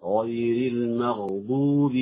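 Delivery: slow, drawn-out recited غير المغضوب; measured tajweed example on غير المغضوب; recitation demo. Shown as a demonstration. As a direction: draw out غير المغضوب in careful Quranic articulation. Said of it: "الملاحظات النطقية التي تتعلق بإخراج هذه الأحرف".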